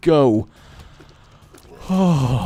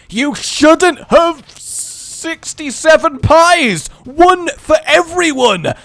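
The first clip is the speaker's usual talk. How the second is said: mock scolding; 10 semitones higher, 5 dB louder, slower than usual. Scolding a greedy enemy.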